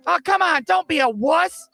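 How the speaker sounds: high-pitched imitation of a kid; goading little brother. Little brother goading the scared rider, high mocking imitation. Brother goads narrator in story.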